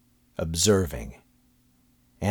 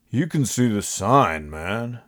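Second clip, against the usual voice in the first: exasperated; 4 semitones higher, slower than usual. A narrator's reading. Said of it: "the guy said, exasperated".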